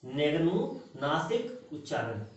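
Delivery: निर्नुनासिक drawn out slowly and softly, syllable by syllable; slow, soft teacher's model of निर्नुनासिक उच्चारण; slow demonstration. Shown as a demonstration. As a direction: spell निर्नुनासिक out slowly for the class. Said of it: "देखिए".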